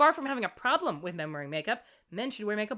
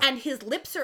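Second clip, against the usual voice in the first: ordinary delivery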